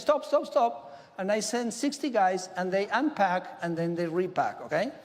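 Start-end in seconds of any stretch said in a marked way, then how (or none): 0.0-0.7 higher, urgent call to halt the boat; calling out stop. Retold or imitated. Exporter calls the boat back, higher urgent shout. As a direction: yell to stop the ship leaving port. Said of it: "I say".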